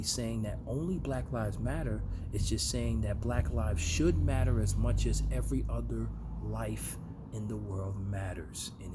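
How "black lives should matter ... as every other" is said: SHOULD punched loud; stress on SHOULD. Real, not acted. Vlogger explaining what Black Lives Matter means, emphatic on SHOULD. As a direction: lean hard on the word SHOULD, louder.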